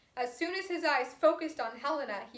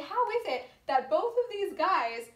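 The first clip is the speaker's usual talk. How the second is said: confused; 4 semitones higher, 3 dB louder than usual. Retold or imitated. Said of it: "She's really, really confused".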